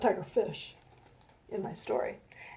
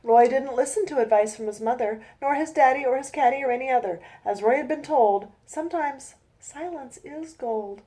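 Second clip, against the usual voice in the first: storybook reading. A narrator's reading. Reads her rhyming picture book.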